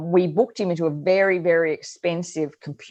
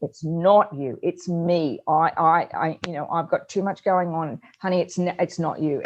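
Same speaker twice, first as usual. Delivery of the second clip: tender reassurance. Retold or imitated. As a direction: soothe him gently. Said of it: "I hugged him. I said".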